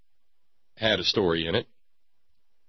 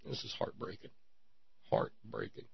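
hushed, much softer, mock sorrow; mock heartbroken; 15 dB quieter than usual. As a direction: murmur it in feigned heartbreak. Mock grief over the tale.

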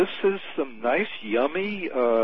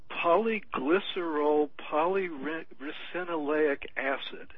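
slowly sounded out; 3 semitones higher, slower than usual. Real, not acted. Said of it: "good pronunciation".

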